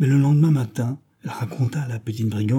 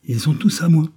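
put-on robber girl voice; 6 semitones higher, 4 dB louder than usual. Robber girl claims the pigeons.

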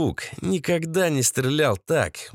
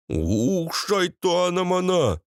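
mild hissed curse; Pahlavon; 5 semitones higher, slower than usual. A narrator's reading. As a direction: curse under a put-on foreign worker's voice. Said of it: "прошипел Пахлавон". (сдавленное ругательство)

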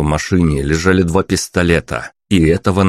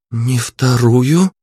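higher, slow, "вторую" rising in doubt; a girl echoing "не вторую", puzzled; puzzled princess echo; 6 semitones higher, much slower than usual. A narrator's reading. Princess puzzles over the word, rising.

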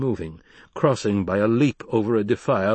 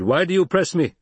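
raised, higher-pitched reproof; rebuking; 9 semitones higher, 5 dB louder than usual. Acted. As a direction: rebuke a challenger firmly. Leader rebukes challenger.

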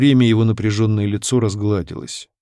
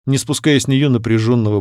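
ordinary delivery

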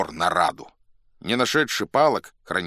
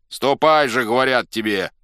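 loud, higher command; impatient shout; 4 semitones higher, 7 dB louder than usual. A narrator's reading. Cossacks order the reluctant chief along, shouting. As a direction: shout him into going. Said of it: "кричали запорожцы".

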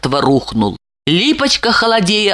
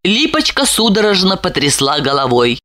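plain reading voice

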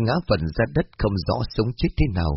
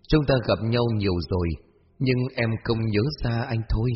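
lightly voiced gentle young man. Mysterious young man to Hoa, gently understated.

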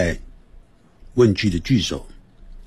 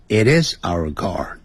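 慢速示范; 3 semitones lower, slower than usual. Shown as a demonstration. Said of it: "或者是".

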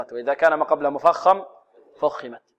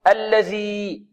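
الذي drawn out with the tongue between the teeth on ذ; teacher shows the ذ of الذي; slow careful articulation; 3 semitones higher, much slower than usual. Shown as a demonstration. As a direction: stretch الذي slowly, tongue out on the ذ. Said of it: "من طرف اللسان".

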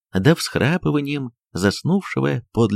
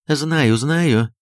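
a touch of worry, quick repeated words; anxious mistress answering the maid; взволнованно; 4 semitones higher than usual. Acted. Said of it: "взволнованно ответила Софья Антоновна". (взволнованно, с лёгкой тревогой)

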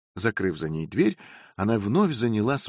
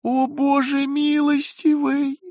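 much higher, slow, distraught wail; wailing lament; 5 dB louder, slower than usual. A narrator's reading. Frightened maid wailing to the heavens, tearful. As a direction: cry out to the ceiling in despair. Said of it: "запричитала она".

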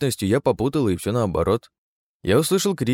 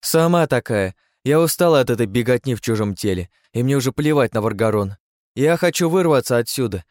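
indignant outburst; 5 semitones higher than usual. Acted. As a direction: snap back at the council. Third keeper angry outburst.

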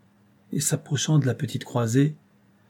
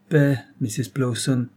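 pitiful tone; 3 semitones higher, 3 dB louder than usual. Acted. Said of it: "d'un ton digne de pitié".

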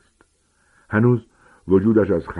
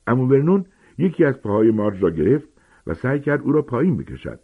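ordinary delivery

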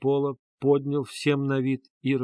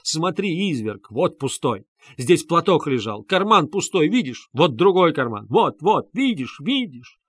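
frantic showing; 3 semitones higher, 4 dB louder than usual. Acted. Katerina turns out pockets.

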